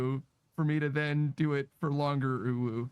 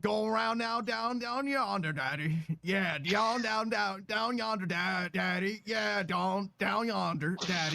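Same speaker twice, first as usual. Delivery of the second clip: put-on Southern accent; 3 semitones higher than usual. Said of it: "That's Southern Daddy".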